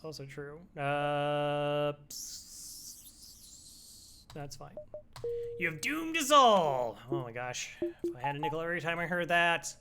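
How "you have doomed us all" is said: raised, louder doom-laden proclamation; mock dramatic doom. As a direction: proclaim doom with hammy grandeur. Dramatic doom line in game.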